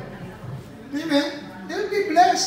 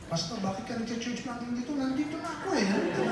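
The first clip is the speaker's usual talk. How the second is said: territorial pastor; 11 dB quieter, faster than usual. Acted. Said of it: "Puntahan mo yung pastor".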